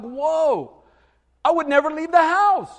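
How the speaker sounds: mock alarm. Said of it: "I'm like".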